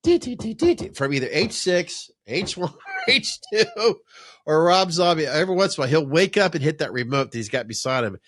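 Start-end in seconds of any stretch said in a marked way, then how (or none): 0.0-5.2 mock incredulous question. Mock questioning kid at night.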